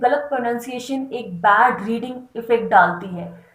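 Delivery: ordinary delivery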